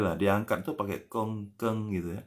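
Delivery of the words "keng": keng with a nasal ng ending. Shown as a demonstration. Teacher demonstrating keng for the class, nasal ending. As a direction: say keng through the nose at the end. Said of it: "pakai sengau hidung".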